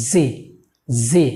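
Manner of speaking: জি with a pressed, buzzing initial consonant; corrected pronunciation. Shown as a demonstration. Teacher modelling the letter for learners, careful corrected pronunciation. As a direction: lean on the first sound of জি. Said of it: "আমরা এভাবে উচ্চারণ করব".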